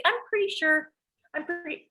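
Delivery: very high-pitched mimicry of a daughter; imitated insistent daughter. Daughter protesting to mom, imitated high and insistent.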